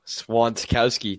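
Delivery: Swantkowski said slowly, with a K sound before -owski; correcting pronunciation. Shown as a demonstration. Co-host correcting his mispronounced last name, Swantkowski said slowly. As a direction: stretch out Swantkowski, sounding the K clearly. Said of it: "you didn't say it right".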